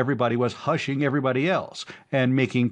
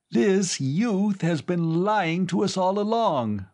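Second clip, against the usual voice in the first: accusing cry; 9 semitones higher than usual. A narrator's reading. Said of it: "the old man with the beard cried".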